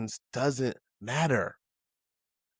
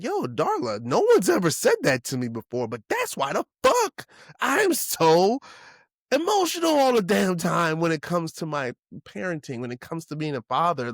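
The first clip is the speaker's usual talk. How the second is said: emotional outburst; 4 semitones higher, 3 dB louder than usual. Retold or imitated. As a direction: voice jumps high and loud, words rushing out. Retelling his emotional reply to Darla.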